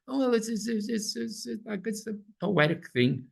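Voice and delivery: lightly hammed-up scholar who stammers excuses; mock dithering scholar. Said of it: "They go like this".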